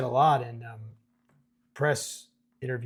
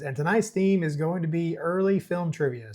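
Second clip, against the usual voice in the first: lightly voiced quiz-night host; trivia host announcing; 4 semitones higher, 3 dB louder than usual. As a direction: announce the theme, pitch a little higher. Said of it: "And the trivia guy says".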